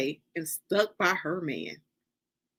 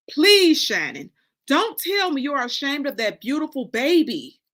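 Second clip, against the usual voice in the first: louder, higher pleading burst; mother begging daughter, loud and pained; outraged plea; 4 semitones higher, 5 dB louder than usual. Acted. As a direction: beg her, shocked and loud.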